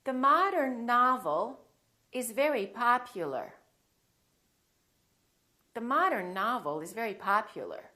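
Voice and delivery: "modern novel" and "popular" with open "ah"; emphasize the "ah" in "modern", "novel", "popular"; ah sound drill. Shown as a demonstration. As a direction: model "modern", "novel", "popular" as mahdern, nahvel, pahpular. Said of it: "sentences now that contain the ah sound".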